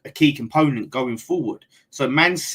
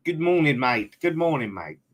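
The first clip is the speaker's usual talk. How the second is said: put-on Australian accent; 2 semitones higher than usual. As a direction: greet them in a hammed-up Australian accent. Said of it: "Sorry about that accent".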